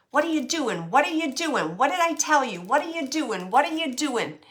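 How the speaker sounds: half-acted angry mom repeating the question; scolding mother. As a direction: nag like a mother with a rolling pin. Scolding mother spirit voiced.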